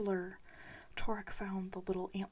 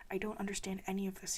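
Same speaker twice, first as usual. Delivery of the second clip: cried; faster than usual. Acted. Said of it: "he cried".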